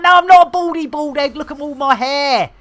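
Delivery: indignant protest. Acted. Acts his hat arguing back.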